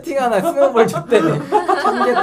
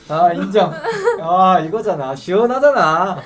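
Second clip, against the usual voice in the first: laughing; 6 dB louder, slower than usual. Real, not acted. Laughing hard at a friend eating.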